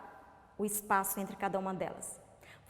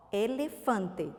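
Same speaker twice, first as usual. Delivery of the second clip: "elefante" slowly, broken into syllables; 2 semitones lower, much slower than usual. Shown as a demonstration. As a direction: say "elefante" in slow, separate pieces. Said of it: "o terceiro pedacinho".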